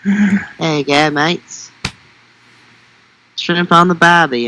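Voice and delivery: hammed-up Aussie cliché; Australian accent. Co-host showing off after a failed attempt, mock Australian accent. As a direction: play it as a stock Australian. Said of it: "Australian accent".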